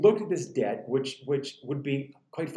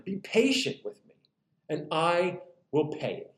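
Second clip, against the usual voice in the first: pleading. Acted. Fellow servant begging his creditor for more time, mildly pleading. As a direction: plead gently for patience. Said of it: "he pleaded".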